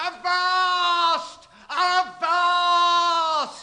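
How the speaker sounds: high bellowed sea call; shouting captain. Acted. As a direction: hail the deck like a mad captain. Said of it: "Captain Ahab shouting from the crow's nest".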